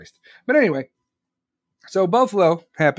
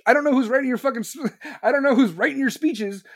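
laughing, higher, through the rant; 7 semitones higher, faster than usual. Real, not acted. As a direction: crack up mid-insult. Laughs while ranting.

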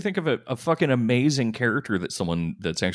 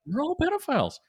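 comedian parody. Retold or imitated. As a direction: ham up a bro comic.

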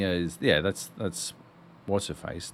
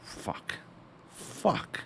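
whispered curse; 4 semitones higher, 11 dB quieter than usual. Real, not acted. Muttered exasperation.

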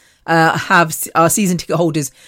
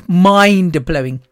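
"mind-blowing" said slowly, syllable by syllable; drawn out, slow; much slower than usual. Shown as a demonstration. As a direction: stretch out "mind-blowing" for emphasis.

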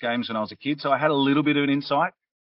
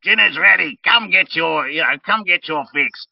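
yelling across the room; 5 semitones higher, 7 dB louder than usual. Acted. Goblin-poisoning scene, calling out.

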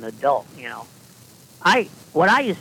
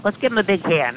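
rallying; 6 semitones higher, 4 dB louder than usual. Acted. Coach leads applause.

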